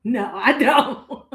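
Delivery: drawn-out no through a laugh; slow laughing refusal. Real, not acted. She declines the offer to dwell on it, laughing slowly. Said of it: "You wanna sit in it?".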